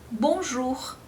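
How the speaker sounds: bonjour with a rounded French ou. Shown as a demonstration. Teacher modeling bonjour for students. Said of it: "Veja que bonjour você tem o O e o U".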